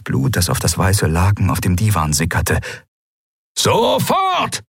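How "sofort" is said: high, insistent command; impatient shout. Acted. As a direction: yell the order once more. Captain repeats his order.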